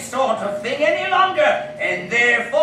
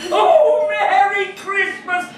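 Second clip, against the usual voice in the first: joyous shouting; 4 semitones higher than usual. Acted. Scrooge overjoyed on Christmas.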